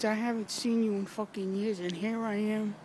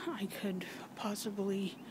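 unvoiced, trailing confession; whisper; 7 dB quieter than usual. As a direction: breathe it out under the voice. Confessing she never dated.

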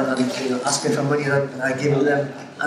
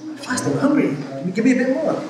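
greedy customer; 10 semitones higher than usual. Retold or imitated. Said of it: "He goes".

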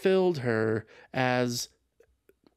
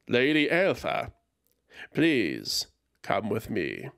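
a lightly voiced old man; wizened old healer; 2 semitones lower than usual. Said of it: "The familiar, wizened voice".

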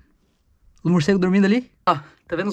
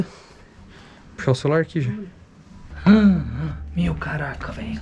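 whispering; slower than usual. Real, not acted. Whispering in a dark cave.

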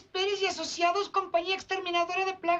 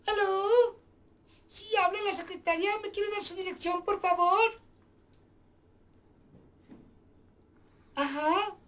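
man doing a woman's voice. Acted. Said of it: "intenta hacer voz de mujer".

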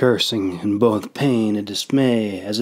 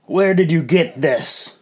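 raised, higher demanding voice; loud demand; 6 semitones higher than usual. A narrator's reading. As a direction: call out for attention. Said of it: "he demanded loudly".

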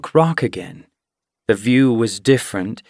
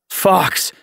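sudden high fearful yelp; frightened cry; 8 semitones higher than usual. A narrator's reading. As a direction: blurt it out in fright. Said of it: "His eyes widened with fear".

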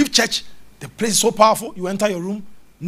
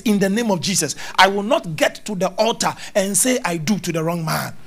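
demonstrated prayer declaration; 3 dB louder than usual. Shown as a demonstration. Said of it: "speak like this".

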